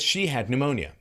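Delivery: high, emphatic mock assertion; imitating a confident declaration; stated as fact. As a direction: mimic someone insisting it is settled. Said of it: "it's a fact".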